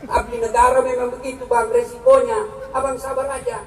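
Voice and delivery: calm him down tenderly; soothing wife. Retold or imitated. Ideal wife comforting husband.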